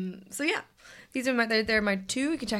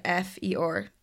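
spelling it out; slower than usual. Shown as a demonstration. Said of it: "very difficult name".

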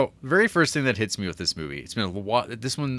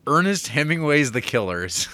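trailer announcer; 5 semitones higher than usual. Retold or imitated. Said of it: "bold proclamation".

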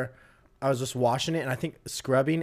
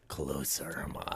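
much lower, hushed mock command; instructor imitation; 11 semitones lower, 11 dB quieter, slower than usual. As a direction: order it low and under your breath. Instructors ordering the line closer.

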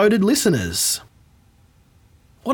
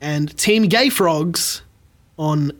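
dramatic slow reveal. Acted. Reveal of the quiz winners.

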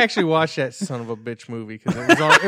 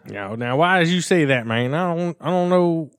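mock Southern accent; 3 semitones higher than usual. Friend answering as an upset Southerner, mock Southern accent. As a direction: play an offended Southerner. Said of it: "Those Southerners are gonna be pretty upset".

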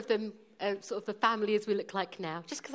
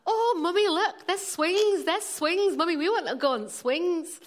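put-on excited little boys with Leeds accents, high and loud; high, eager Leeds-accented child voice; 7 semitones higher, 6 dB louder than usual. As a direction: call out to Mummy in broad Leeds. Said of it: "That was my Leeds accent".

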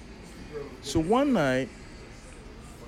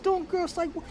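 incredulous; 14 semitones higher, 4 dB quieter than usual. Retold or imitated. Teller acts own incredulous reply.

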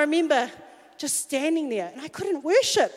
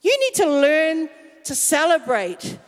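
God's nudge. Retold or imitated. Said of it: "God was like".

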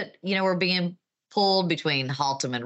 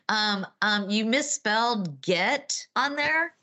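clueless boss voice; 5 semitones higher, slower than usual. Pretend. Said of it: "your older boss ... said".

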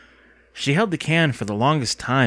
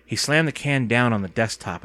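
ordinary delivery, nothing marked

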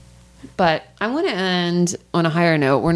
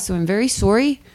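put-on higher, playful Canadian accent; mock Canadian accent; 3 semitones higher than usual. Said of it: "I'm listening to this Canadian".

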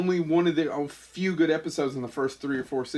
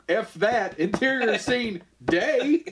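higher, deliberately drawn-out dismissive rewrite; raised-pitch writer declaring a script change; mock Roddenberry; 5 semitones higher, much slower than usual. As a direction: overrule it grandly, slowing on the scene heading. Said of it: "And Roddenberry's like".

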